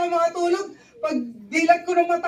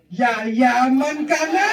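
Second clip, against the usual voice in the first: slow rousing promise; 4 semitones lower, 4 dB louder, much slower than usual. Retold or imitated.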